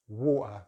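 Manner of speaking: water with a glottal stop. Shown as a demonstration. Teacher showing glottal T water. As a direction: catch the t in water in the throat. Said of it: "glottal T instead of the regular".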